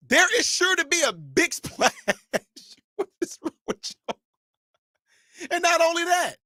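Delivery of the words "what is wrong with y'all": exasperated whisper. Real, not acted. Unvoiced exasperated aside.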